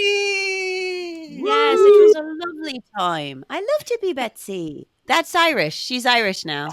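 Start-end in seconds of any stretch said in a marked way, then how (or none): 0.0-4.9 gushing cry. Real, not acted. Gushing about playing Betsy.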